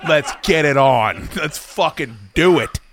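mock battle cry, slow and rising; building excited yell. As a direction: pump yourself up before a pizza binge. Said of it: "I'm like".

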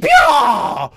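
loud, high cowboy whoop; yeehaw shout. Retold or imitated.

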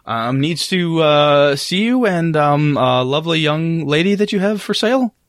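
hesitant old man, lightly voiced; a touch of anxious stammering with ums and uhs; nervous grandpa. Grandpa passing on the visitors' request, lightly nervous. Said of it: "A very nervous Grandpa Thompson".

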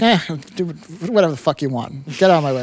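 imitating a director who doesn't care; dismissive director. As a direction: wave them off with an indifferent grunt. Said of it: "he doesn't fucking care".

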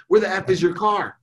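high-pitched, demanding outburst; acted anger. Dad interrogating daughter about car, angry. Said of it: "I would have called in anger".

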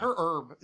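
"her herb" with the R sounded, H dropped on herb; R pronounced. Shown as a demonstration. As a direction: say "her herb" with clear American R's. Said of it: "see how I say that R".

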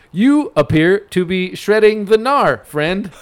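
slow, word by word robot voice; spaced out like a machine talking. Retold or imitated. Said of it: "all in individual words".

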